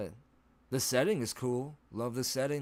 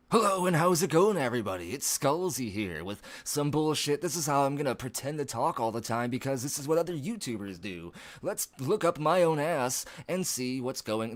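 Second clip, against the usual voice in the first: loud, high-pitched fake YouTuber hype; 4 semitones higher, 5 dB louder than usual. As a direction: overdo a peppy YouTuber intro, mockingly. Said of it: "like, YouTuber voice".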